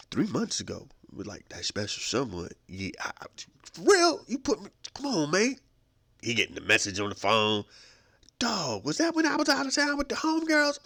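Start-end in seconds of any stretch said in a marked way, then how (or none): 3.7-5.6 shocked. Acted. Caller shocked on the air. 8.4-10.8 put-on high-pitched accusing girlfriend voice; suspicious girlfriend. Girlfriend confronting him on air.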